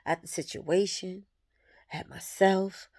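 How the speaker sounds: quiet, halting words through real tears, long pauses between; fighting back tears as relief sinks in; tearful, choking up. Real, not acted. Speaking to viewers about her ex, softly tearful and broken up. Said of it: "Pardon me if I get emotional".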